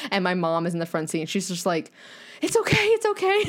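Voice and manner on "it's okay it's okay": high soothing mom voice, twice over. Retold or imitated. Daughter imitating her mom calming her after the crash, high and soothing. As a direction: coo it like a mother calming her child.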